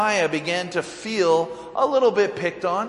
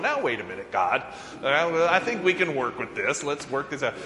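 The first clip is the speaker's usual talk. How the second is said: soothing talk-down; 2 semitones lower, 3 dB quieter than usual. Retold or imitated. Moses talking God down.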